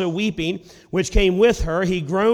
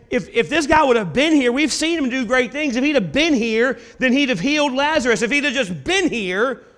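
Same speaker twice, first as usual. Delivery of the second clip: complaining doubters; 5 semitones higher than usual. Retold or imitated. Voicing doubters questioning Jesus' timing.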